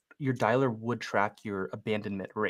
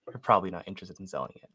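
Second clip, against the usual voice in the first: a touch of put-on disappointment, a bit quicker; mock bummed out; 3 semitones lower, faster than usual. Shown as a demonstration. Agent demoing his cold call assumption, mildly bummed. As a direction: sound let down before they answer. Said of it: "Like, all bummed out".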